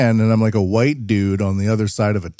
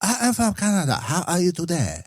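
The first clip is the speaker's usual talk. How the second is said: put-on much higher, soft Asian-accented English; polite Asian English accent, sweetly; 8 semitones higher, 4 dB quieter, faster than usual. Canadian Asian customer greets the clerk, speaking in a polite Asian English accent. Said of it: "Asian-y English accent".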